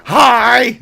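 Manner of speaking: very high, loud laughing hello; loud cheery hi. Retold or imitated. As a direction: greet her like an overexcited kid. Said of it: "I was like".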